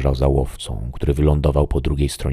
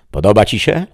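higher, louder hopeful question; new hope; 7 semitones higher, 8 dB louder than usual. Acted. The voice asks the shadow, higher and louder with hope. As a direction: ask with rising hope. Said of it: "W głosie dało się wyczuć nową nadzieję".

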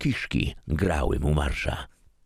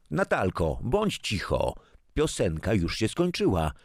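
mother's voice; 6 semitones higher than usual. A narrator's reading. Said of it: "Z kuchni dobiegł głos matki".

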